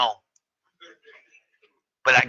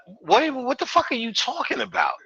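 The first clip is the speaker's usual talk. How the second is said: rapper impression; 8 semitones higher than usual. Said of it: "then the rapper was like".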